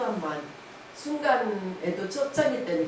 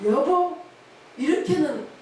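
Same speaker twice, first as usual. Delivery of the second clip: gently calling husband; 7 semitones higher, 4 dB louder, slower than usual. Retold or imitated.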